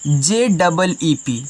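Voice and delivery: letters spelled out slowly, one by one; slow spelling. Shown as a demonstration. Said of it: "teacher spells the word". (अक्षर धीरे-धीरे बोलना)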